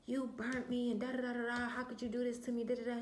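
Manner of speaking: high-pitched mock confrontation; retold accusation. Girlfriend confronts boyfriend by phone, high-pitched accusing re-enactment.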